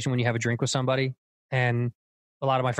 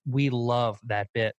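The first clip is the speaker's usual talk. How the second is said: put-on Indian accent; much slower than usual. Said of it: "Indian people come up to me and be like".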